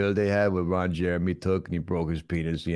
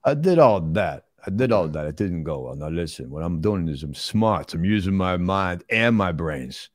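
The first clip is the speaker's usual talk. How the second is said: deliberate movie tough guy explaining himself; plodding, self-satisfied star impression; Sylvester Stallone. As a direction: play a slow-talking action star.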